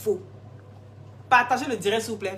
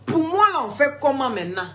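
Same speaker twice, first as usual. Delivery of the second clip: raised demand; 4 semitones higher, 4 dB louder than usual. Real, not acted. Repeated confrontation, raised.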